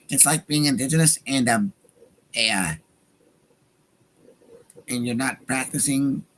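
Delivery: lightly voiced debater imitation; a hint of a debater laying out an analogy; Ben Shapiro. Host relaying an analogy as a debater, light impression. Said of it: "I guess I'll just do it in the Ben voice".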